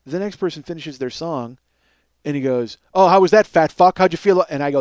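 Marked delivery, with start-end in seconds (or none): 2.9-4.4 loud, goading jeer, slightly raised pitch; angry taunt. Retold or imitated. Karaoke host goading a man after a song, angry taunt.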